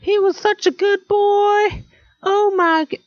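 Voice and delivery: high, slow weepy mourner; hammed-up grieving voice. Mourners at his funeral, wailing high and slow. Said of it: "Be all like".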